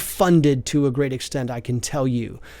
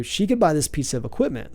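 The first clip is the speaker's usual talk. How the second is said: a touch slower, for clarity. Shown as a demonstration. Podcaster repeats it for listeners, a little slower. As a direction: repeat it a little more slowly. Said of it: "I'll say it slower".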